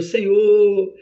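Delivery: pleading confession, lightly acted; a touch of sorrowful, chanting prayer; penitent praying. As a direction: plead with God for mercy. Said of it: "a pessoa tá orando e tá dizendo".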